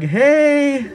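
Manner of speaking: high, bright cheery hey. Retold or imitated. Answering the friend's call with a bright hey. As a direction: answer the phone all cheery. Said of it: "Complete change of tone".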